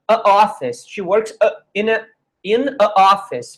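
a office with two vowels bumping; vowel clash demo. Shown as a demonstration. Teacher showing the awkward a office clash. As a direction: run the a straight into office. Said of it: "Fica duas vogais juntas".

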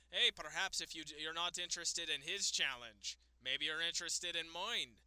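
lightly put-on impression of a wrestler; Finn Balor. Wrestler offering himself as challenger, lightly imitated voice. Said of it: "that's a good Finn Balor impression".

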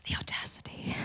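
whispered mock outrage; hushed, scandalised aside; indignant whisper. Millennial still fuming at the sleeping man, indignant whisper.

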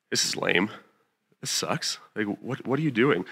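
quiet, let-down sulk; deflated grumble. Acted. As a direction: act out soft, disappointed complaint to God. Sulking when God disagrees.

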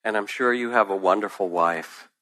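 put-on smiling old man.

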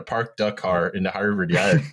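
hammed-up Boston accent, R's dropped; broad imitation of Boston Irish Riviera speech. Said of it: "The Irish Riviera accent".

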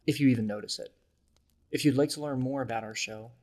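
upbeat podcast ad read; bright host announcement to listeners; announcer voice. Acted. Reads the podcast mid-roll ad.

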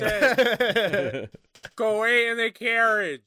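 sharp bark of an order; loud sharp voice. Acted. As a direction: snap it out loud at him. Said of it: "Stop shouting".

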